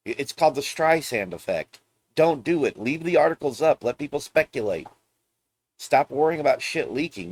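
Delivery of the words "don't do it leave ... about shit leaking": pleading to Nintendo. Real, not acted. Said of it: "Nintendo, you shouldn't go after".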